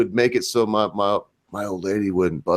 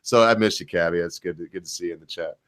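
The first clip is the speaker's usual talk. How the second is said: softening into a tender, low close; gushy; 4 semitones lower, 4 dB quieter than usual. Real, not acted. Greeting a missed friend in the chat, gushy. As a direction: let the fondness trail off quietly. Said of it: "Oh, that was gushy".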